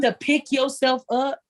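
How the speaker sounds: slow words through tears; real tears while recounting; tearful. Real, not acted. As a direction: hold back tears as you speak. Still tearful recounting struggle.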